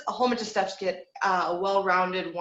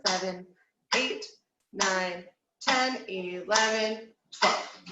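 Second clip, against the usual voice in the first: slow count; much slower than usual. Shown as a demonstration. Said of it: "release for twelve counts on S H".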